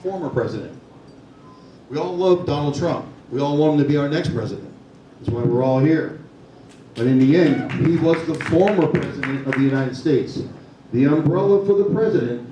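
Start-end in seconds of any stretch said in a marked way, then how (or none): 0.0-0.8 "Former president" set apart after a pause; "Former president" said deliberately, with a falling close; emphatic repeat. Real, not acted. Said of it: "What's the word I just said?". 7.7-9.5 "former" picked out firmly; emphatic "former", higher than the words around it; stress on FORMER. Real, not acted. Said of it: "What's the word I just said?".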